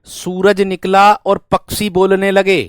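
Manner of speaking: slow, deliberate reading; slow example reading. Shown as a demonstration. Teacher reads the example sentence slowly for students. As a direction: read the sentence slowly for notes. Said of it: "बात clear है?".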